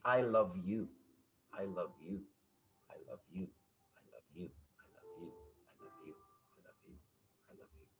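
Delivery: low mantra trailing away into a faint murmur; fading affirmation. Shown as a demonstration. Coach models a repeated self-affirmation.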